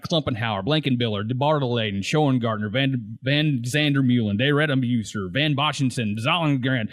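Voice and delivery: rapid low roll-call of names; Kiso. Retold or imitated. Running through all the Dutch player names, quick low recital. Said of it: "how quickly Kiso goes through".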